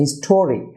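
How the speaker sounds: "হিস্টোরিক" as his-TO-rik; stress on second syllable. Shown as a demonstration. Teacher shows where stress goes, "হিস্টোরিক" as his-TO-rik. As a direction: punch the "TO" in "হিস্টোরিক". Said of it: "টিতে stress হবে".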